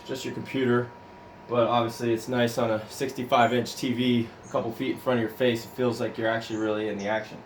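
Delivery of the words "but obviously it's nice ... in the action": winded after a hard ride; breathing hard between phrases. Real, not acted. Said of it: "I'm out of breath 'cause I just got done".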